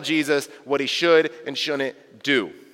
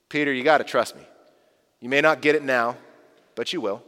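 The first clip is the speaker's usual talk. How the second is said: a touch of Jesus calming Peter; Jesus reassuring; 5 semitones lower than usual. Pretend. Jesus asking Peter to trust him, gently reassuring. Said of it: "Jesus answers".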